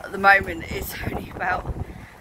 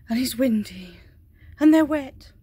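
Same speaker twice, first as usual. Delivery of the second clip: whisper; 2 semitones higher, 3 dB louder than usual. Real, not acted. Filming ponies from the window, she whispers. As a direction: whisper so the ponies won't hear.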